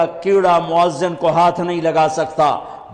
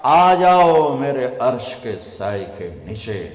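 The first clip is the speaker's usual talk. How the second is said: divine summons; 5 semitones lower than usual. Acted. God calls the faithful under His throne's shade, lowered summons. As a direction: stretch the first words, then let it sink low. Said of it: "جب اللہ کہے گا".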